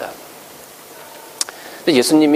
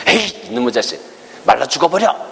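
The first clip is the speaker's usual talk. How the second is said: irritated curse. Retold or imitated. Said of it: "화가 났다는 거죠".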